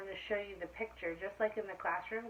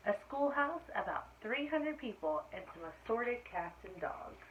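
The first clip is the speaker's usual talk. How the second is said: clear, lively storybook reading; reading to children; 3 dB louder than usual. A narrator's reading. Teacher reading aloud to her class, storybook voice. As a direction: read it out to the class like story time. Reads picture book to class.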